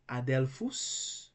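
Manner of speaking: Adelphus said slowly with l and f kept apart; slow, careful Adelphus; separated consonants. Shown as a demonstration. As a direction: draw out Adelphus, l closing one syllable, f opening the next. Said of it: "pronounced separately".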